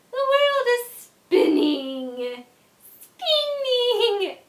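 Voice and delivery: put-on slow, dazed drunk drawl. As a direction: groan it out like the room is turning. Drunk lying in bathroom doorway.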